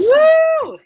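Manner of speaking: a loud high cheer; cheering woo. Real, not acted. Host cheering the speaker after her talk, loud high whoop. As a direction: whoop with joy.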